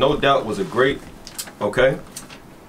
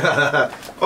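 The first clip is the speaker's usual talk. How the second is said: imitated "ha, ha, ha" laugh; mock laugh. Debater imitating his laughing opponent, mock laugh. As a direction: mimic the man's laughter in spoken syllables. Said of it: "And he's laughing. He said".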